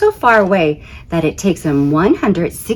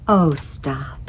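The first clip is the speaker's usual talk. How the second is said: coy Saturn; 4 semitones lower, 7 dB quieter than usual. Acted. Saturn flattered.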